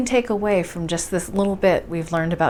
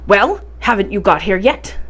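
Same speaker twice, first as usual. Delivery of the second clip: a slightly louder, impatient call; 4 dB louder than usual. Acted. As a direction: hurry him up, annoyed. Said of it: "called to me again in an impatient voice".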